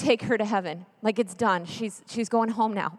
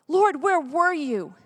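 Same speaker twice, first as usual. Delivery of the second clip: anguished challenge; 3 semitones higher, slower than usual. Acted. Repeats the cry to God.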